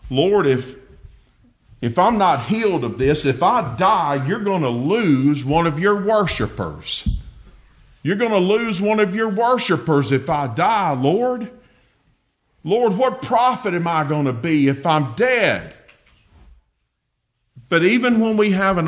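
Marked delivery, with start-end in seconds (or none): 0.1-4.2 argumentative. Retold or imitated. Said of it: "almost in an argumentative way". 4.3-7.1 a touch of pleading protest, understated; mildly argumentative. Retold or imitated. David arguing with the Lord, mildly argumentative. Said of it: "almost in an argumentative way". 8.0-15.7 more insistent argument. Retold or imitated. David pressing his case with the Lord, insistent. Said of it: "almost in an argumentative way".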